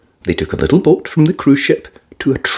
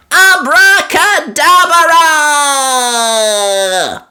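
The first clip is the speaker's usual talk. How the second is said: very slow, high, drawn-out magic word; little girl saying the spell; 3 dB louder, much slower than usual. A narrator's reading. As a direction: cast it grandly. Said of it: "said Peppa".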